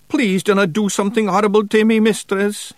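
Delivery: high, loud pleading; begging. A narrator's reading. Frightened Feegle pleads with witch, begging. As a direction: beg for mercy in a high voice. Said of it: "he begged".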